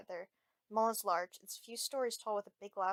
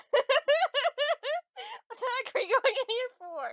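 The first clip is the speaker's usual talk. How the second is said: incredulous; 9 dB louder than usual. Acted. Jaxie incredulous at store.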